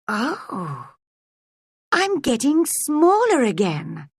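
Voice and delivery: startle, then fret; Alice noticing she is shrinking; alarmed. Acted.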